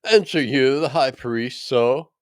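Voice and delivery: a guard scolding the prisoner for his insolence; indignant officer. A narrator's reading.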